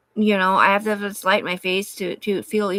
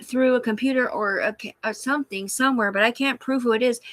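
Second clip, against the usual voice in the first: higher, sweetly hesitant voice; mock polite caller; 5 semitones higher than usual. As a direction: play it small and overly nice on the phone. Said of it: "I'm like".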